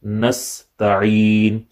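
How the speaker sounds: "Nasta'in" with a throaty ain. Shown as a demonstration. Teacher shows students ain in "Nasta'in". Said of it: "with ain".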